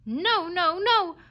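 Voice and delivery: high, loud, furious no; raging refusal. A narrator's reading. Dog rejecting the fox's plea, raging. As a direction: shout it down in a rage. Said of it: "the dog raged".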